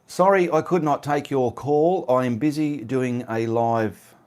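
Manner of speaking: recording a quick voice reply while on a live; voice message. Real, not acted. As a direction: dictate it as a voice note to the caller. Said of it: "I'm just gonna use a voice one".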